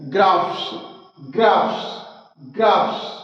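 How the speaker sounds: "ग्राफ्स" with ph said as f before s; F sound. Shown as a demonstration. Teacher drills the ph spelling, "ग्राफ्स" ending in an "fs" sound. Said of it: "पी से फ की ध्वनि निकलती है".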